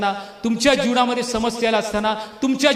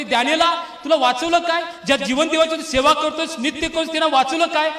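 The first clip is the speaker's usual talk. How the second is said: higher-pitched acted plea, lightly distressed; mock tearful calling; 5 semitones higher than usual. King asking Daniel if God saved him, mildly tearful. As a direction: call out as the worried king, only hinting at tears. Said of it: "तो, तो रडत जातोय आणि म्हणतोय".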